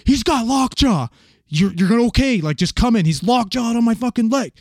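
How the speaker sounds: high, strained pleading cry; panicked victim. Retold or imitated. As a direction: imitate a man begging for help. Trapped screaming victim voiced in story.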